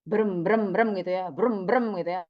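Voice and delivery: spoken "brem brem" engine noise; rough spoken mimicry of a motor; jet ski imitation. Shown as a demonstration. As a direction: imitate a jet ski with low repeated brems. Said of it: "Gimana bunyinya jet ski kira-kira".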